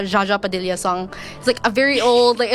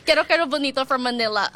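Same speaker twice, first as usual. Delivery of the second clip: Filipino accent; 3 semitones higher, faster than usual. Shown as a demonstration. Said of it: "so I'm gonna use my Filipino accent for this".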